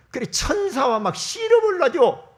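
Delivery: loud, high preaching; a preacher driving the story home; fervent preaching. Acted. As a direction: proclaim with energy. Preaching climax.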